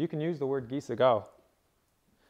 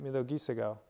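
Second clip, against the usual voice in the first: "Miyogi Sagao" stressed on the GI, third syllable back; stress on third-last syllable; 4 dB quieter than usual. Shown as a demonstration. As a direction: lean on GI in "Miyogi Sagao", let the rest fall away. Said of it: "So right here".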